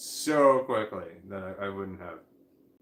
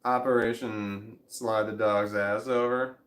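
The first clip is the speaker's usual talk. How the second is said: mock announcement; 6 dB louder, slower than usual. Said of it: "announcing his plan grandly".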